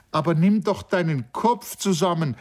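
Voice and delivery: high, exasperated exclamation; impatient call. A narrator's reading. Sri Daman calls out at his friend, impatient. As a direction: snap him back to his senses. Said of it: "rief Sri Daman ... unwillig".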